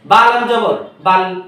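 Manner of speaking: slow, syllable by syllable spelling; slow classroom spelling drill. Shown as a demonstration. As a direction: spell each one out slowly for the class. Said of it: "আপনি যখন বলে আলিফ নুন জবর আন".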